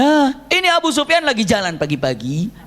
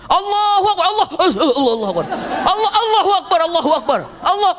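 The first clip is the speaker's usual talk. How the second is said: awed takbir; 10 semitones higher than usual. Acted. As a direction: cry out in amazement. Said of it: "Begitu dilihat Abu Sufyan".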